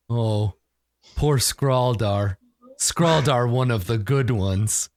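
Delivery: slow, simple-minded mourner, lightly voiced; simple mourning brute. Skuna grieving over dead Skraldar, slow simple mourning. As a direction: mourn a friend in slow, halting words.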